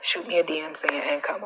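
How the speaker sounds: whispered aside. Real, not acted. Host tells viewers to DM her, whispering. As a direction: slip them the tip in a whisper.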